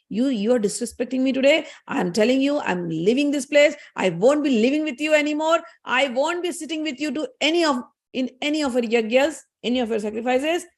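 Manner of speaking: angry Saraswati. Retold or imitated. Saraswati tells Brahma she is leaving, angry. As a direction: act out a wife's angry ultimatum. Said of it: "Saraswati is so angry".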